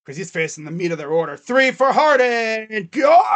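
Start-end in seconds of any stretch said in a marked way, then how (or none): 1.4-3.2 slow build into a loud, high cry of Go; will the ball into the basket; hopeful shout. Real, not acted. Willing a shot in.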